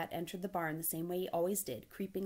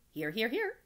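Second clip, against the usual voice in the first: higher, louder triple roll-call answer; eager gander; 5 semitones higher, 6 dB louder than usual. Acted.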